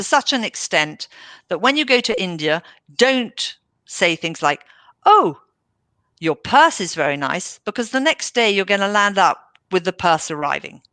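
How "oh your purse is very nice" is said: gushing compliment. Retold or imitated. A visitor gushing over an Indian host's purse, mock admiring.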